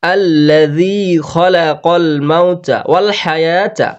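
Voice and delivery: slow, drawn-out Arabic recitation; Quran recitation. Shown as a demonstration. Quran teacher modelling the verse for learners, slow measured recitation. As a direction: recite it slowly, holding the long vowels. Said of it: "এখান থেকে আমরা পড়লাম".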